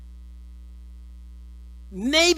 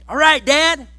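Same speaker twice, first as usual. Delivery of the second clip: eager son; 7 semitones higher, 6 dB louder, slower than usual. Acted. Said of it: "So Joseph's like".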